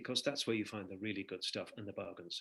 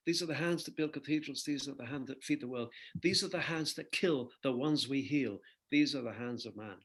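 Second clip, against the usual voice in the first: reciting song lyrics; 3 semitones higher than usual. Shown as a demonstration. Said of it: "I wrote a song".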